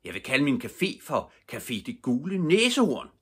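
excited call. A narrator's reading. Herr Løve proudly announcing his café's new name, loud. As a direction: proclaim the new café name. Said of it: "råbte han".

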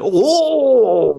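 long, loud high wail falling away; hammed-up scream, sliding down at the end; mock Japanese scream. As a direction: bellow a drawn-out comic "oh". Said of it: "Grita en japonés".

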